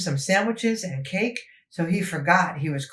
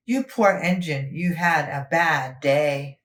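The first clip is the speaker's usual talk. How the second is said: sympathetic; slower than usual. Acted. Sympathetic friends comfort Henry.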